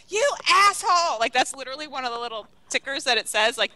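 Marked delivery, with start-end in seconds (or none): 0.1-1.2 high, drawn-out indignant shout; hammed-up furious cry; mock angry yell. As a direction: hurl the insult at him, slowly. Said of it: "be a bitch about it and be like".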